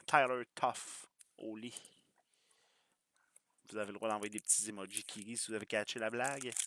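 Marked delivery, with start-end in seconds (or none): 0.1-1.7 slow "Tyler Toffoli" in thick Quebec French, Tyler as Talœr; frenchify "Toffoli", Tyler said Talœr, slowly; Quebec French accent. Shown as a demonstration. Card breaker showing off his Quebec French accent on the name. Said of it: "c'est important d'écouter mon, mon accent".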